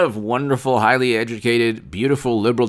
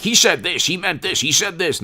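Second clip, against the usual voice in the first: higher sing-song mock accusation; mock gossipy chant; mocking gossip; 4 semitones higher than usual. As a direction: imitate twisted tattling, pitched up. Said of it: "like this warped and twisted".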